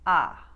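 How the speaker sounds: "ah" fully wide as in spa; loud Long Island "ah", wide open; Queens vowel. Shown as a demonstration. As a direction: open "ah" right up, Queens style. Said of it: "Queens and Long Island".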